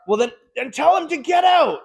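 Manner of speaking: high, loud yell at the sales guy across the floor; retold shout. Manager yelling at the salesman to throw the client out, loud shout. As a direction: bark the order out like a manager losing it. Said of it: "I've done the shout from the tower".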